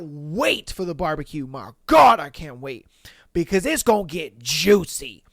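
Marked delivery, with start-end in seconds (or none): 3.3-5.2 whispered, leaning in with gossip; conspiratorial whisper; juicy whisper. Real, not acted. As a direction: hush it like a secret you can't wait to spill. Gossip teaser.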